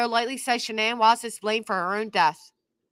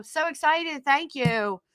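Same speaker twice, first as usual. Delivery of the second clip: lightly acted higher-pitched gushing thanks; mock excitement; 4 semitones higher, 3 dB quieter, slower than usual. Birthday person thanking a best friend, mock excited. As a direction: pretend to be thrilled, starting high. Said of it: "You're all excited".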